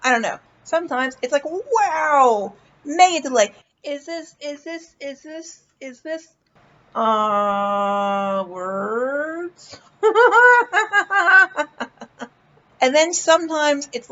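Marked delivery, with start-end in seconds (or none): 3.8-6.3 trailing off, searching for words; quietly stuck on a loop; halting, fading repeat. Shown as a demonstration. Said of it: "Sometimes there's no delay ... mega delay". 6.9-9.8 slow, lost searching for words; confused search for words. Shown as a demonstration. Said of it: "Sometimes there's no delay".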